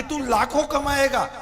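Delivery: a hint of an eager recruiter, laughing; lightly mock his upline's hype through a laugh; imitating upline pitch. Mimicking the friend's upline promising him lakhs, with a laugh. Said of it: "upline करती है कि नहीं?".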